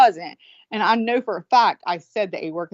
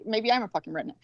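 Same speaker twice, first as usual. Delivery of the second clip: muttered mock comeback, trailing softer; defensive retort; 7 dB quieter, faster than usual. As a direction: grudgingly throw it back, quietly, as a quote. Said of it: "you think I'm a redneck?".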